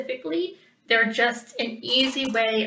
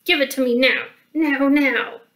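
troll shouting; 3 semitones higher, 7 dB louder than usual. Acted. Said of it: "he shouted".

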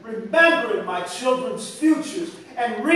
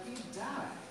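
soft, hushed Tennessee drawl; lightly voiced Southern Tennessee drawl; 20 dB quieter than usual. A narrator's reading. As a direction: breathe it out quietly in a Tennessee drawl. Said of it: "In her colloquial Tennessee drawl".

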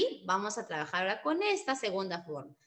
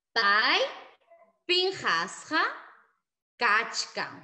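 Pai pinjasja kachkan word by word, loud on Pai; spaced model answer; 3 dB louder, much slower than usual. Shown as a demonstration. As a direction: drill with pauses.

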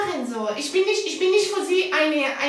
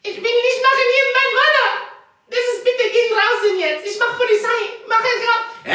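upset pleading; 3 semitones higher than usual. Real, not acted. Frau droht mit Polizei.

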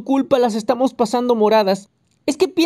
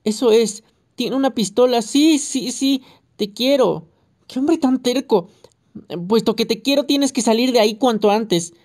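higher, raised voice of the wife; mild, insistent yelling; shouting; 6 semitones higher than usual. A narrator's reading. Wife urging her husband to come out, raised voice. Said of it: "no hacía más que gritar".

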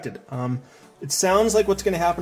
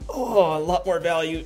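pained groan. Real, not acted. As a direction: groan from back pain. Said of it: "Sorry, that's my back".

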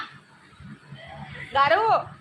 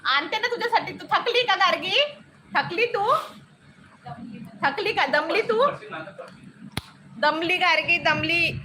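coaxing; 3 semitones higher than usual. Real, not acted. Mother coaxing tired toddler.

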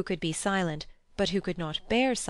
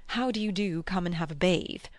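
mock lady's greeting. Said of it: "Can you picture a lady".

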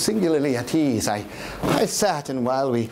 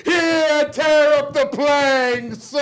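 higher, louder, slow anguished cries; much higher desperate shouting; frantic confession; 8 semitones higher, 4 dB louder, much slower than usual. Acted. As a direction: cry out the confession. Confession cry.

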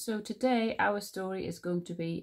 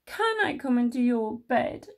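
higher, louder little-mouse plea; pleading Little Mouse; 5 semitones higher, 5 dB louder than usual. A narrator's reading. Little Mouse asks yet to share, high pleading. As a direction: beg in a raised small voice. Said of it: "asked Little Mouse".

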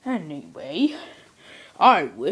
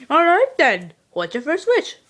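leprechaun voice; 3 semitones higher than usual. Acted. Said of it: "You sound like a little leprechaun".

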